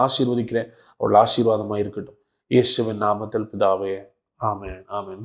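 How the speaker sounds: earnest spoken prayer, building in insistence, then settling into the amen. Real, not acted. Pastor praying to the Father for sick viewers, earnest prayer. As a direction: plead on their behalf, then ease down to close.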